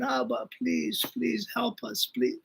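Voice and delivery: soft, slow, a touch of a tearful plea; retold crying prayer. Young man at the Kotel begging God, softly tearful. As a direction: gently mimic a man weeping at the Wall.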